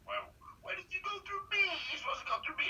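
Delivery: very high mock woman's complaint; female agent voice. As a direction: squeak it like an annoyed agent. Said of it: "they go".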